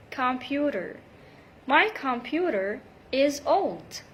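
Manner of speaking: computer with a quick D flap. Shown as a demonstration. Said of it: "between two vowel sounds".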